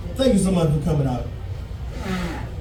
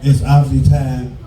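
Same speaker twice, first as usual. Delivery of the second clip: lightly voiced mother; 7 semitones lower than usual. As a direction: gently break the news as his mother, lower.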